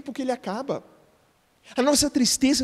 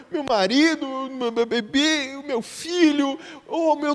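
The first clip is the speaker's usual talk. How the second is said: mock weeping; 3 semitones higher, slower than usual. Pastor mocking complainers, slow whimpering. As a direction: imitate a believer crying over what was lost. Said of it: "chega de ficar chorando".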